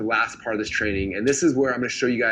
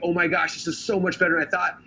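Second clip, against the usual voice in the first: mild mock amazement, pitched up; freaking out; 4 semitones higher than usual. Viewers reacting to the free keynote, freaking out. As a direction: imitate an impressed viewer gushing. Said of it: "everyone who saw it was freaking out".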